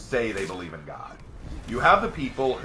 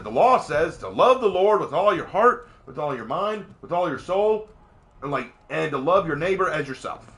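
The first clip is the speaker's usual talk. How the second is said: eager answer; 5 semitones higher, 7 dB louder than usual. Retold or imitated. Lawyer answers Jesus eagerly.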